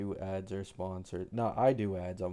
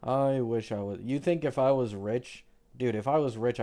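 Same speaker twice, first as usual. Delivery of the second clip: raised, emphatic outburst; loud exclaim; 3 semitones higher, 6 dB louder than usual. Real, not acted. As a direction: say it loud and worked up. Streamer exclaims about being rich.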